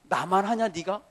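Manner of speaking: loud, rising rebuke as Jesus; a hint of the Lord chiding a disciple; voice of the Lord rebuking. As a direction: scold him gently but firmly. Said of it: "주님이 그러시는 것 같아".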